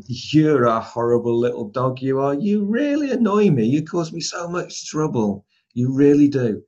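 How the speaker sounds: sweet, singsong voice for harsh words; nice voice. Shown as a demonstration. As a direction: coo it at the dog like praise. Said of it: "in a really nice voice".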